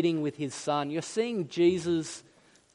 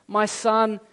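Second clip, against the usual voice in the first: lightly acted fatherly tenderness; earnest, gentle reassurance that settles at the end; tender father; 3 semitones higher than usual. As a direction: reassure a wounded son, lovingly. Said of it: "Do you hear the tenderness?".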